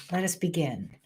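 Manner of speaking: murmured repeat. Real, not acted. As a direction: say it again under the breath. Repeated softer.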